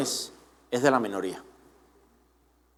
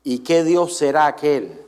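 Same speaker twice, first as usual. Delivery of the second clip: Nebuchadnezzar voice; 5 semitones lower, slower than usual. Retold or imitated. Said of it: "imitar un poco la voz de Nabucodonosor".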